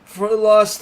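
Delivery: put-on high, loud old man voice. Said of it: "I keep using old man voice".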